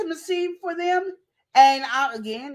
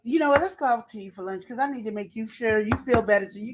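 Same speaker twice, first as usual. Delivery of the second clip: coworker luring; 4 semitones lower, faster than usual. Acted. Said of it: "they said".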